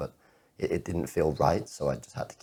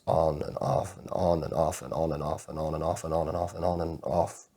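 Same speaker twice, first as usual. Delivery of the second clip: repetitive, mechanical run like a switch flicking; compulsive repetition. Acted. Man recounting his compulsive light switching, obsessively repetitive. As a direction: rattle it off in an unbroken loop.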